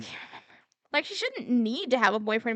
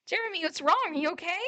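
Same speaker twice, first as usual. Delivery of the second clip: worried Christine; 6 semitones higher, 4 dB quieter than usual. Acted.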